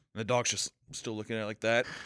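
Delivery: ordinary delivery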